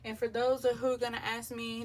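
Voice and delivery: ordinary talk, nothing marked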